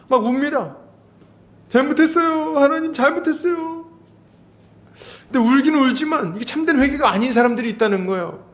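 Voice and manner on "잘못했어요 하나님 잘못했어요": higher, pleading cry of false repentance; mock tearful plea. Preacher mimics a weeping sinner, in a mock tearful plea. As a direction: imitate someone wailing sorry to God. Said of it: "막 울어, 울어".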